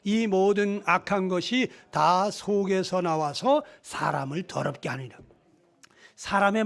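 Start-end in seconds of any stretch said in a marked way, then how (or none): 0.0-5.2 slow, measured Bible reading; scripture reading. Acted. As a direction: read the verse out slowly and solemnly. Reads a scripture verse aloud. (성경 구절을 천천히 봉독하듯)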